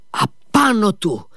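understated howl, high and drawn out; old man's howl. A narrator's reading. Old man setting his sons on Dmitri, mildly howled. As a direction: stretch it high like an old man howling, without much volume. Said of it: "ούρλιαξε ο γέρος".

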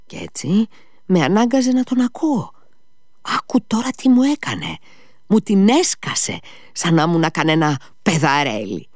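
agitated Ivan, pitch leaping high; Ivan agitado. A narrator's reading.

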